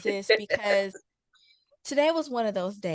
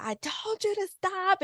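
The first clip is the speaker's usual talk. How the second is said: mild mock yell; 10 semitones higher than usual. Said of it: "while I was yelling".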